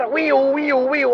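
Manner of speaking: wee-oo of a police siren; spoken siren wail; imitated police siren. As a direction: mimic a siren with the voice.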